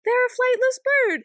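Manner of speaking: mock incredulous. Speaker quotes own reaction.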